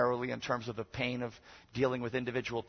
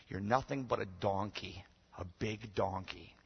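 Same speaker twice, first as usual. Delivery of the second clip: deadpan insult; 3 semitones lower, 5 dB quieter, slower than usual. Retold or imitated. Reads out letter's insulting close.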